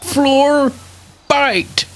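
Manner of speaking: put-on old veteran grandpa rambling; doddering old grandpa voice. Grandpa character.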